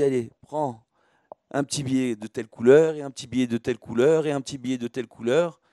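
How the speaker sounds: loud, quick handing-out call; lively call out. Retold or imitated. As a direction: call it out to the crowd. Rebbe handing out bills quote.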